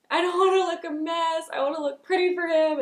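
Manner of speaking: high, loud mock-tearful plea; retold emotional pleading. Bride-to-be worried about crying in the photos, high retold pleading. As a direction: push the voice way up, as if fighting back tears. Retelling fighting tears before cameras.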